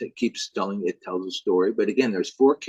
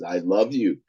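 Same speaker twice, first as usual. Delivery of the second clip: menacing Elf King. Acted. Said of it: "Elf King says".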